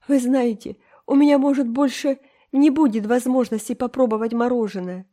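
put-on high, loud, pleading girl; desperate pleading. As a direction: beg as if everything depends on it. Энн умоляет Марилу. (Энн в отчаянии умоляет Марилу отпустить её)

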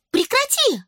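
put-on high angry girl's shout. A narrator's reading. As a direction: snap at your brother to stop. Ross yells at Alfie.

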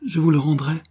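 earnest, impassioned reassurance, opening high; loving vow. A narrator's reading. Jacques consoling weeping Jacqueline, loving and solemn. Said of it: "d'une voix où se révélait l'amour".

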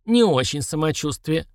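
put-on slow weary old man; old prospector. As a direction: admit it like a tired old codger. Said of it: "сознался старик".

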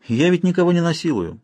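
ordinary delivery, nothing marked

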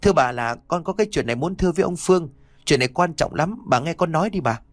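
high, fast urgent pleading; pleading hurriedly. Acted. Beggar boy pleading fast with the lady of the house. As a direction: rush out the plea before she leaves. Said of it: "rúi rít nói".

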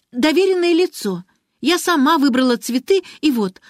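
put-on very high, loud child through tears; tearful girl. Girl defending her father to Ariadna, high and tearful. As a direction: plead with rising emotion.

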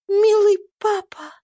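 reach out gently to papa; tender call. A narrator's reading. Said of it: "проговорила Ева".

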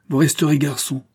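high, loud peremptory verdict; angry refusal. A narrator's reading. Father forbids his son to marry, angrily.

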